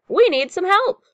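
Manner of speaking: high, loud call for help; urgent storybook yell; captain's yell. A narrator's reading. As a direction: holler for help over the storm. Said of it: "he yells to the sea monster".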